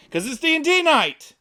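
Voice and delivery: loud, high robot announcer; booming mechanical robot host. Pretend. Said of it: "talking like a robot".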